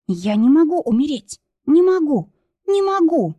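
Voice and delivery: rising, breathless cries of panic; panicked wailing. A narrator's reading. Kristina wails in the blizzard, panicked and breathless. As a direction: wail it, running out of air. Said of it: "причитала Кристина, задыхаясь".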